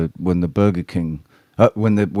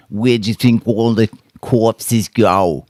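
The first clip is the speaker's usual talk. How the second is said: higher, louder, slower mock Jewish rabbi accent; stereotypical rabbi accent; 5 semitones higher, 6 dB louder than usual. Streamer recalls a rabbi video, mimicking his Jewish accent. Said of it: "that stereotypical Jewish rabbi".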